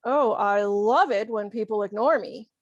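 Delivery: mild mock enthusiasm; lightly sarcastic, leaning on the feigned fondness. Ignored person complaining, mildly sarcastic. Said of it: "Of course, that's sarcasm".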